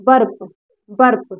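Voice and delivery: "बर्प" modelled twice, as "barp"; teacher repeating "बर्प" with an "ar" sound; U read as "a". Shown as a demonstration. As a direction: say "बर्प" with a short a before the r. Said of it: "इसको हम आ पढ़ेंगे".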